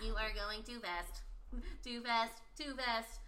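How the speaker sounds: stiff robotic warning voice. Retold or imitated. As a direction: warn like a car robot. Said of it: "I was robotically navigating".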